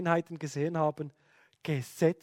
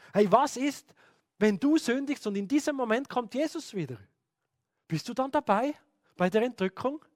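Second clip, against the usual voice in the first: higher, pressing questions; fear-mongering preacher; 5 semitones higher than usual. Retold or imitated. A preacher frightens listeners about the rapture, higher and pressing. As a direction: needle them with fear.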